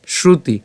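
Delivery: "শ্রুতি" said as a careful shru-ti; careful Sanskrit pronunciation. Shown as a demonstration. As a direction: model "শ্রুতি" as two distinct syllables. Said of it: "উচ্চারণটা কেমন হচ্ছে". ("শ্রুতি" স্পষ্ট সংস্কৃত উচ্চারণে)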